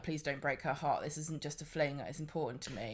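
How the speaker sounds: a soft mock plea; pleading quote.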